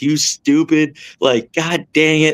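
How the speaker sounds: mock self-scolding. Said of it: "cussing myself out".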